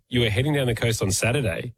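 mock-suspicious echo, doubting what was just said; accusatory. Shown as a demonstration. Interrupting someone's story to repeat their words, accusatory. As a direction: repeat it back as a mild accusation. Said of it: "in an accusatory tone".

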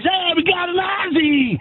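imitated excited vendor. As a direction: call it out like a delighted hot dog seller. Acts out excited New York vendor.

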